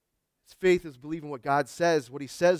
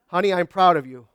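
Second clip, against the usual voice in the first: louder, fond wife's line; wife's praise, louder; 6 dB louder than usual. Shown as a demonstration. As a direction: say it up and bright, meant kindly. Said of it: "when you're not listening".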